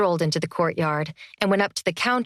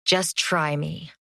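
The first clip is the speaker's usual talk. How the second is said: deeper voice; 3 semitones lower, slower than usual. Acted. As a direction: drop the voice and dare him. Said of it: "her voice deepened".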